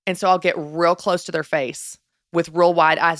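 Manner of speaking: ordinary talk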